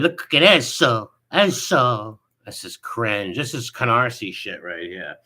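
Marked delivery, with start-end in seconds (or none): 0.0-2.2 louder Italian-American "eso" mocking the rival. Streamer mocking a rival's fake Italian talk, in a mock Italian accent. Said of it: "put the, uh, the Italian, uh, talk on the word".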